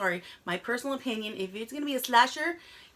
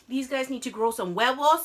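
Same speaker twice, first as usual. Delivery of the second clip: annoyed; 4 dB louder than usual. Retold or imitated. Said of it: "That pissed me off".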